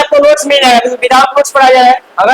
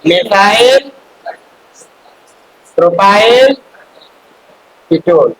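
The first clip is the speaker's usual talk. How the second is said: word-by-word dictation with long pauses; 2 semitones lower, much slower than usual. Real, not acted. Teacher dictating a compound name for students to write, word-by-word dictation. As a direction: draw out each word, letting the first two rise.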